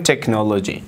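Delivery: "تکنولوژی" with a hard K and no H sound; silent H. Shown as a demonstration. English teacher explaining H after C, "تکنولوژی" with silent H. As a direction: say "تکنولوژی" starting "tek", H left silent. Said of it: "ما حرف H را تلفظ نمونیم".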